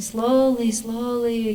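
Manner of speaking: drawn-out, cautioning midwife; slowly. Retold or imitated. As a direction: stretch the word to hold someone back. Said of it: "And I'm going".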